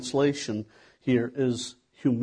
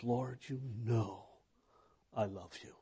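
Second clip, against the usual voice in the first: much softer, slowed, worn-out plea; weary exasperation; 2 semitones lower, 11 dB quieter than usual. Retold or imitated. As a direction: let it sink out of him, tired and hurt. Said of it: "And Peter got exasperated".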